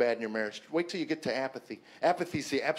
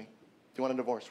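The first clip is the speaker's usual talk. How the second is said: casual offhand; 3 semitones lower, 4 dB quieter, much faster than usual. Retold or imitated. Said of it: "as if you want to take out the trash".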